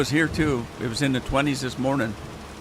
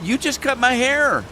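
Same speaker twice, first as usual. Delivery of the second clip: much higher, louder mock protest; 12 semitones higher, 5 dB louder than usual. Husband telling wife she cut his hair, mock high voice. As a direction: squeak it out in protest. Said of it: "I said".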